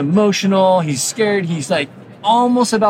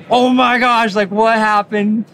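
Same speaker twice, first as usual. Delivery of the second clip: higher-pitched mock wail, only slightly louder; mock screaming; 6 semitones higher, 4 dB louder, slower than usual. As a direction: imitate a panicked child without really screaming. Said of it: "starts screaming".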